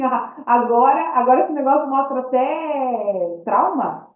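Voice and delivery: slow, drawn-out doubting tone, pitch barely shifted; sceptical mock reading. Patient recalling her doubt to the healer, slow mocking scepticism. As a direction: read it out slowly, half-mocking, as if you don't buy it. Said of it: "Eu li diferente de mim".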